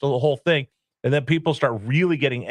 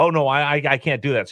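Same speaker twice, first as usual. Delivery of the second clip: put-on, mock-nervous voice. Speaker retells their dad balking at the VIP check-in line, imitating nervous dad. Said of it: "he would get really nervous".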